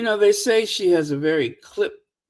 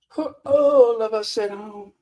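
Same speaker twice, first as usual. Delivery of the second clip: mock forced words. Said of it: "for you to force those words out".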